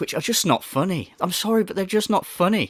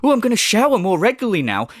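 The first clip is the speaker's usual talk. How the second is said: quick, higher sarcastic mimicry; mock quote; 5 semitones higher, 3 dB louder, faster than usual. Commentator mocking the streamer's hygiene boast, quick sarcastic mimicry. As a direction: rattle it off in his smug voice. Parodying streamer's shower claim.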